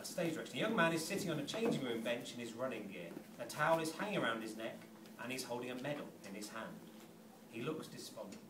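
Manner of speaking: low, even reading of stage directions. A narrator's reading.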